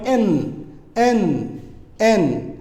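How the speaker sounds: "এন" with tongue lightly touching, air through the nose; nasal N sound. Shown as a demonstration. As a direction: let the end of "এন" ring through the nose. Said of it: "নাক দিয়ে বাতাস বের করুন". ("এন" নাক দিয়ে বাতাস বের করে)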